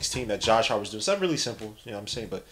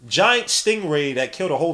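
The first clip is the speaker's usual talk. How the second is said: Joe Rogan; 5 semitones higher, 3 dB louder than usual. Acted. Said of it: "suit to Joe Rogan, but they love doing that".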